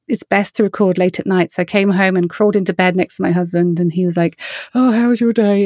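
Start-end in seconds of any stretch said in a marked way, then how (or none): 4.8-5.6 sleepy voice. Retold or imitated. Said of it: "in his sleepy voice".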